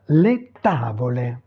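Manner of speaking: "les tavole" said distinctly in Italian; Italian pronunciation demo. Shown as a demonstration. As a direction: model "les tavole" for learners. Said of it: "prononcer les mots". (prononcer « les tavole » distinctement à l'italienne)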